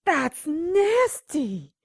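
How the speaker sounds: slow, drawn-out cry of disgust. Acted. Partner sees the corpse in the tub, slow and disgusted. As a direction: stretch it out, repulsed.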